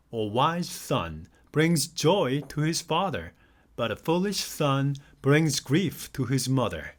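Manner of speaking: slow, careful read of the verse. Acted. Teacher reading a verse to English learners, slow and careful. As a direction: read each word out deliberately for learners. Reads Bible verse aloud slowly.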